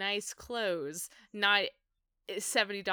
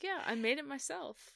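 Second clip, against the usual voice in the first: lightly acted pride, pitched up; high, softly imitated proud reply; 6 semitones higher, 4 dB quieter than usual. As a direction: imitate someone proud of their handiwork. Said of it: "he's so proud of it".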